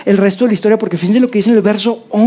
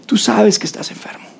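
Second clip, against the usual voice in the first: hushed confiding whisper; 4 dB quieter than usual. Real, not acted. Preacher confronting listener gently, whispered. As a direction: lean in and whisper it.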